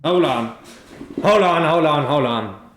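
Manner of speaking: startled hold on. Real, not acted. Startled game master halting the players, loud. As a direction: stop the table, really startled.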